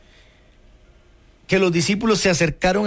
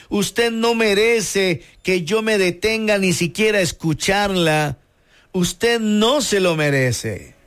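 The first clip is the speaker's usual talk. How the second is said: stern Jesus; 2 semitones higher, slower than usual. Retold or imitated. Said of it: "Esa fue la respuesta de Jesús".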